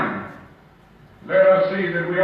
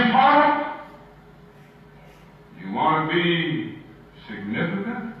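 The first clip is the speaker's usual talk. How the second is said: knowing questions, then a lifted "Well, you ought to be"; gently probe, then affirm; Jesus' reply. Pretend. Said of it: "he said in substance".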